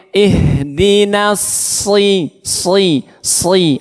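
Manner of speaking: "si" with a long i, lips not pouted; unrounded lips. Shown as a demonstration. Teacher models for pupils, "si" without pouting. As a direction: keep the lips spread on "si". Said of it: "jangan monyong".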